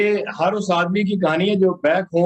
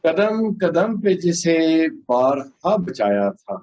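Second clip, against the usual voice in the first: measured, solemn ghazal delivery; poetry recitation. Acted.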